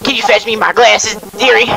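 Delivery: a hint of a creaky old lady asking sweetly; lightly voiced old granny. Streamer voicing Granny asking for her glasses, light old lady voice.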